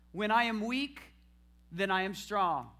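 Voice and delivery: loud declaration for them to echo; declaring it aloud. Shown as a demonstration. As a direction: proclaim it as a model. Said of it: "declare through your praise".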